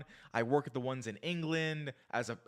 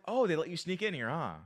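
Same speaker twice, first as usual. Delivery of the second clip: playful banter; 4 semitones higher than usual. Retold or imitated. Retelling his teasing of a woman at the gym, bantering. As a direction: tease lightly, acting out the banter.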